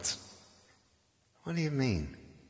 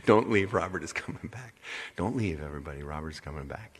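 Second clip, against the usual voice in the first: imitating Robert; 4 semitones lower, faster than usual. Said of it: "I heard what he said when he left".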